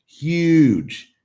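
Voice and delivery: high, loud drawn-out huge; exaggerated emphasis. Real, not acted. Streamer stresses how big it was, high and loud. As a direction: blow the word up for effect. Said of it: "Did I mention he was huge?".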